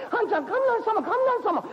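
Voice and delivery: put-on terrified young woman squealing at thunder; scared cry. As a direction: shriek at the thunder. Frightened by thunder.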